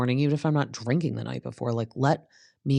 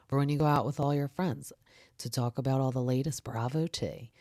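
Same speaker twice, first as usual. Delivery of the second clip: softer upbeat ad read; softer sponsor read; 4 dB quieter than usual. Acted. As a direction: pitch the salon sponsor smoothly. Reads a salon ad.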